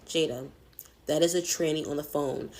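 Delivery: imitating a sister's understated calm. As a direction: state it evenly, without any alarm. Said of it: "My sister says it as calm as that".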